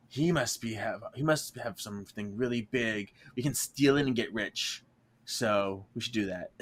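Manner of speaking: soft, low conspiratorial plotting; quiet scheming. Retold or imitated. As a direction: plot it under your breath.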